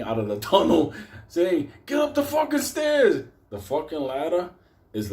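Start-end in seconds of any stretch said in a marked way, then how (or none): 1.9-3.2 very high, loud shout; yelling. Retold or imitated. Running out of the tunnel, shouting at the people on the platform. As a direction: bark the order at everyone in a rush.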